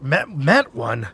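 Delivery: startled. Acted. NPC startled by lich remark.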